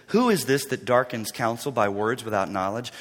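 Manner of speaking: low, soft, grave challenge; deep, measured divine rebuke; stern God. Acted. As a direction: question him with quiet authority. God rebuking Job, acted.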